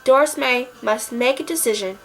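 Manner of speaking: measured, dramatic blurb reading; synopsis read. Acted. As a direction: read aloud like a movie blurb. Reads out the movie's synopsis.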